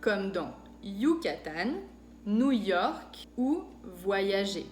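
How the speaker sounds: Yucatán, New York, voyager with a clear Y glide; French Y sound. Shown as a demonstration. Teacher carefully modelling the French Y sound. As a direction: say each Y carefully and slowly. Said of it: "que hace el sonido Y".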